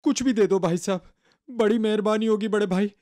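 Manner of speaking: pleading. Acted. Beggar pleading with passerby.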